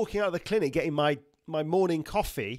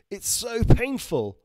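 drawn-out, higher New York-style complaint; New York accent; 6 semitones higher, 5 dB louder, slower than usual. Acted. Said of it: "Sounds like a New York accent".

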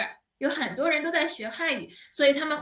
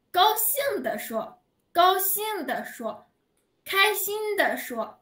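higher and slow, acting out happiness; teacher modelling glad speech, higher and slow; cheerful demo; 7 semitones higher, slower than usual. Shown as a demonstration. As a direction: show the class how a happy voice sounds, drawn out. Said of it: "读得非常的轻，L短".

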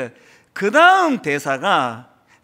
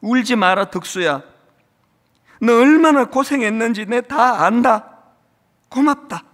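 louder, tender fatherly reassurance; young father comforting his weeping son Deoksu, tender and firm; 3 semitones higher, 6 dB louder than usual. Retold or imitated. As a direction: hold the crying son and soothe him. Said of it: "아들을 안아주면서".

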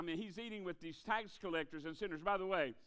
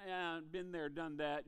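mildly bored seen-it-all attitude; understated been-there indifference; jaded, dismissive; 2 semitones lower than usual. Acted. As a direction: brush it off like old news. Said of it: "kind of attitude".

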